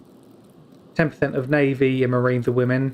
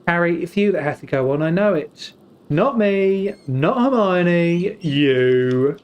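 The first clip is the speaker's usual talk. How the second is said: a hint of earnest Hermione, slowed on the last words; mock film quote; 4 semitones higher, 4 dB louder, slower than usual. Streamer imitating Hermione telling Harry to go on, earnest. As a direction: press each word, ending on a firm you. Quoting Harry Potter scene.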